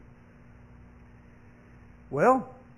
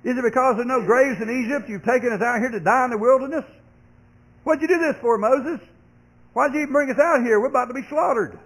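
much higher, louder frantic accusation; panicked complaint; 7 semitones higher, 4 dB louder than usual. Acted. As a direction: throw the panic at Moses. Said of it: "Look at verse eleven again".

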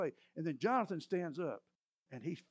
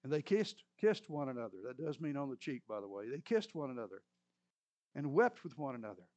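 scripture reading; 3 semitones lower than usual. Acted. Reads scripture passage aloud.

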